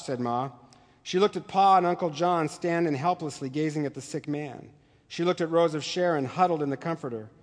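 measured read-aloud of a novel passage; story narration. Acted. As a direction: read it like a teacher sharing literature.

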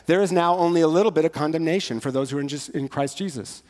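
deliberately wrong reading, rushed; mock misreading. Shown as a demonstration. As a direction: read it wrong on purpose, quick and offhand. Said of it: "What? It's a translation thing".

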